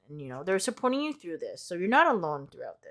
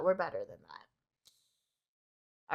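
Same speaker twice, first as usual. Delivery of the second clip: much lower, slow, drawn-out repeat of the line; deep slow echo; 10 semitones lower, 7 dB quieter, much slower than usual. Shown as a demonstration. Repeating her own line to viewers in a deep slow voice. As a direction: drop the voice way down and stretch it. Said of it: "and we're better than that".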